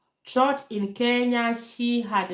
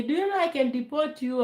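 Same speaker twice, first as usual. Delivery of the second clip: retold angry threat; 6 semitones higher, faster than usual. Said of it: "He was on fire".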